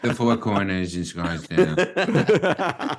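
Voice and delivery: slow nasal Jewish New York voice; nasal Jewish accent. Acted. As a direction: drag out Scottsdale through the nose. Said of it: "that nasal Jewish accent".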